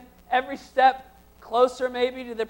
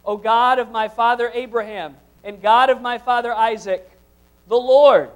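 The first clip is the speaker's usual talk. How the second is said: louder and louder, pleading call to God; desperate plea; 7 dB louder than usual. Acted. Jacob in crisis begging God, rising desperate plea. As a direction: build the desperate cry to God. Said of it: "Notice the desperation in his voice".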